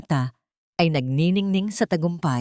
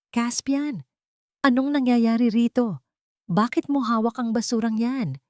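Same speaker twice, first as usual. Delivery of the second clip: irritated demand; 6 semitones higher than usual. A narrator's reading. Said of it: "tanong ni Zandaya".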